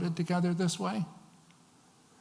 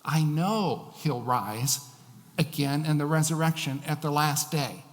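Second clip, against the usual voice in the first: impatient. Acted. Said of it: "She says with impatience".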